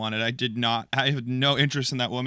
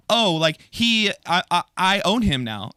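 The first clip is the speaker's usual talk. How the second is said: mock woman's thought; 4 semitones higher, 4 dB louder, slower than usual. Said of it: "her brain immediately went to".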